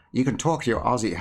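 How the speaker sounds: put-on a half-hearted stab at an Australian accent on "you can talk to your Aussie". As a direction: lightly try an Australian accent, then give up with a laugh. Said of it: "I'm trying to do an Australian accent".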